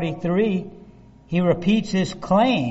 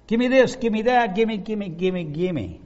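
put-on childish gimme; 3 semitones higher than usual. Greedy demand, fading away.

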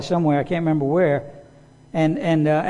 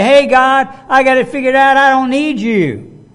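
loud, high mock brag to God; proud man telling God he needs no help, loud and cocky; cocky boast to God; 7 semitones higher, 5 dB louder than usual. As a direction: puff up and wave God off. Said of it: "when we say".

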